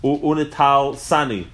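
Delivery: unital sani split as "u-ne-tal SA-ni"; variant spelling. Shown as a demonstration. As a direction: say unital sani with an "s" starting the last word. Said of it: "So the way we have it, just spelled sani".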